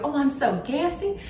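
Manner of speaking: high, sweet little-old-lady voice imitating grandmother; grandma's voice. Granddaughter imitating grandma's gassy excuse, high. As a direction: play grandma, sheepish and high. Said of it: "and she'd go".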